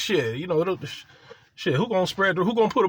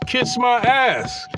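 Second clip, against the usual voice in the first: mock exasperation; 7 semitones higher, much slower than usual. Exasperated retold reaction.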